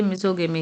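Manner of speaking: misogamy with a hard g, "miso-gemi"; g sound. Shown as a demonstration. Teacher sets the g word against the j word, g sound. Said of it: "यहाँ पे गा sound आ गया".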